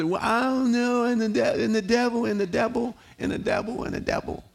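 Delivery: mock timid believer trailing off into a whisper; mocking worrier fading. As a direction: voice fading to a whisper on each devil. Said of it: "Some say".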